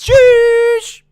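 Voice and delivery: high, loud, drawn-out shush at the crowd. Acted. Streamer shushing a rowdy crowd, loud high shush. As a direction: shush them down hard. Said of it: "I just shooshed everyone".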